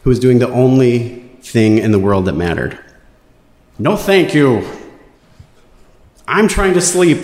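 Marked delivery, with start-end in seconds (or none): 3.8-7.2 mock yell. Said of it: "yelled at us".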